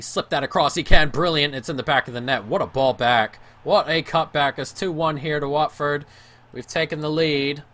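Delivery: loud, rising goal celebration; excited goal call. Real, not acted. Gamer cheering his own goal, excited shout. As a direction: yell it as the goal goes in.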